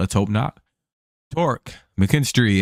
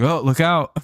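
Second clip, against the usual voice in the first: higher-pitched mock character voice; lightly voiced, pitched-up cartoonish warning; stock impression voice; 6 semitones higher than usual. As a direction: do a generic put-on impression. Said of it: "Most of my impressions are just like".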